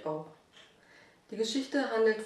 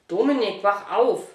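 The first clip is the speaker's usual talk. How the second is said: father calling out; 7 dB louder than usual. Acted. Father wakes sleeping son.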